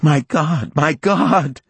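high, loud cry of agony; agonized cry. Acted. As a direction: cry out in pain. Poisoned woman in agony.

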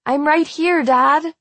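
high, urgent call to Dad. A narrator's reading. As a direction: call out desperately, pitched well up. Desperate daughter calls to her father.

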